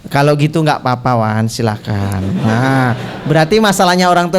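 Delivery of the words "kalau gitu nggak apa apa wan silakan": lightly voiced parent giving in; mock easy consent, tailing down low; relenting parent. Voicing parent giving in once money settled.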